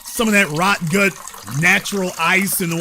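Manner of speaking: jab at him mockingly; taunting. Real, not acted.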